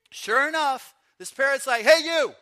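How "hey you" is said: loud, high parrot holler; high-pitched, blaring bird call. Acted. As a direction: call out sharply as a heckling parrot. Parrot calls out again.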